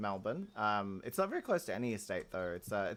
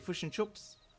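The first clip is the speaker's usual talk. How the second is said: put-on New Zealand accent, pitched up; 9 semitones higher, 3 dB quieter than usual. Explaining how New Zealanders say a phrase, the speaker uses a New Zealand accent. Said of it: "New Zealanders, uh, who are our neighbours, they say".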